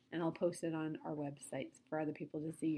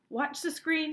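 high, loud urgent call; cried out; 8 semitones higher, 6 dB louder, slower than usual. A narrator's reading. Wonka by the television set, cried out. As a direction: call out high to direct everyone's eyes. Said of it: "he cried".

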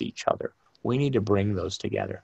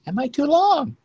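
worried self-check; 5 dB louder than usual. Retold or imitated. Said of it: "when you're trying to figure out".

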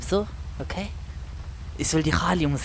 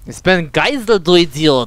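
irritated, raised voice; indignant insult; 5 dB louder than usual. Pretend. Hostage objecting to being ordered out, indignant. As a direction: snap back loudly, insulted. Argues with man ordering him out.

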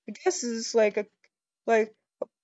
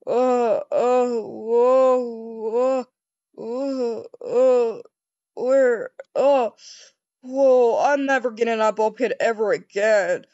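loud panicky cries and gasps; loud flustered shouts from the ball pit; flailing yells; 4 dB louder, slower than usual. Acted. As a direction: yell like you're sinking in balls.

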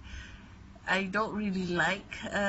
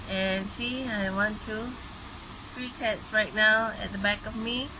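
raised voice over the rain; talking louder. Real, not acted. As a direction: push the voice over the downpour. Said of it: "I need to talk louder".

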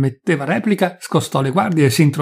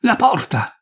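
panting cry; 7 semitones higher, slower than usual. A narrator's reading. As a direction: call out as a winded stretcher-bearer. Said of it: "gridò uno dei militi, ansimando". (richiamo affannato)

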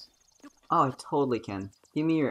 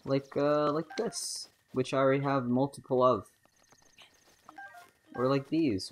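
ordinary talk

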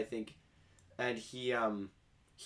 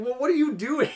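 mock incredulous question; 13 semitones higher, 9 dB louder than usual. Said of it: "It's like".

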